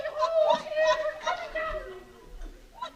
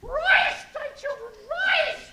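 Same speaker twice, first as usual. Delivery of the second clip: commanding call; 4 dB louder, much slower than usual. Retold or imitated. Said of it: "And I say".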